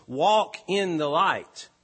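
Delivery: WALK stressed, slow and falling; slow emphatic call to walk. Shown as a demonstration. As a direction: lean on walk, unhurried. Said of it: "as John liked to say".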